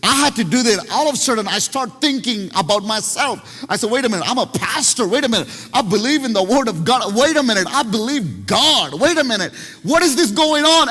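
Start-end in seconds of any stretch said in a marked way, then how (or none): 3.9-10.9 rising alarm. Retold or imitated. Pastor catching himself mid-panic.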